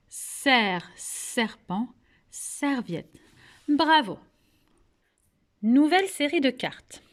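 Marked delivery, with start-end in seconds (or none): 0.1-3.2 "Serre, serpent, serviette." with each opening s lengthened; initial sound highlighted. Shown as a demonstration. Teacher linking sound to words, "Serre, serpent, serviette." with long first s. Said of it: "c'est le son s".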